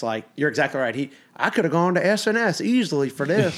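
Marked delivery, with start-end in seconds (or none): 1.4-3.6 lightly voiced imitation of dad, pitched up; a hint of a high dad voice; dad impression. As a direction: mimic your dad a little, voice raised in pitch. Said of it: "because he thinks".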